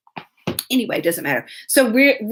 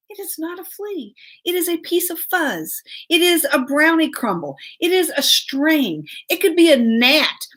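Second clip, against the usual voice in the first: exasperated correction; 5 semitones higher than usual. Retold or imitated. Mother answers child's flea panic.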